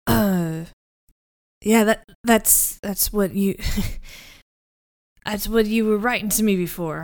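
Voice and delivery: lightly voiced scratchy deep male voice; Meyer Wolfsheim. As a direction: put on a slightly deep, scratchy man's voice. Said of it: "two dueling deep voices".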